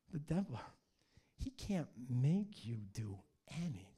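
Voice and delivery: low, hushed, breath-led correction; imitated whisper. God explaining to a young man, in a hushed voice. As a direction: spell it out under your breath. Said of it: "God just whispered".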